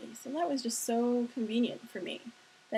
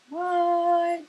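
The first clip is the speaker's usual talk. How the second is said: loud, high shocked outburst; shocked what; 8 semitones higher, 10 dB louder than usual. Retold or imitated. Learning the lady drove the Jag, a loud shocked what. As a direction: blurt it out like you've been hit.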